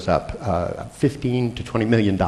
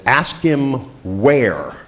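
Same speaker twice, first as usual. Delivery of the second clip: raised pitch, words drawn far apart; slow instruction; 4 semitones higher, much slower than usual. Retold or imitated. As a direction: give a slow, deliberate phone instruction. First instruction down the phone.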